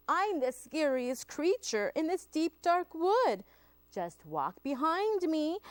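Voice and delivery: boastful mouse. Acted. Mouse bluffs the hungry Gruffalo, boastful. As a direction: puff up a small creature's bluff.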